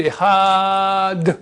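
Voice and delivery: Echad, drawn out, final D sounded; Echad with clear D. Shown as a demonstration. Rabbi teaching students Hebrew pronunciation, slow and careful. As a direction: say Echad slowly, ending on a crisp D. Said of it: "mais le D, Echad".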